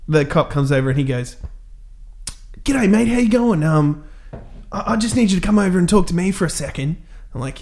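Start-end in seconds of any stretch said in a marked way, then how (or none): 2.6-7.0 higher-pitched cop impersonation; mock cop. Cop approaching a traveller with a dog, higher mock-official voice. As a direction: play the cop calling a suspect over, pitched up.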